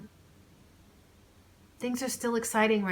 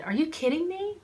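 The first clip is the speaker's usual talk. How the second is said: much higher, louder disbelief; incredulous; 11 semitones higher, 4 dB louder than usual. Acted. Claire brushing off her friend's apology, incredulous. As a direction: scoff at the apology.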